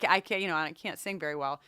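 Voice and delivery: usual speaking voice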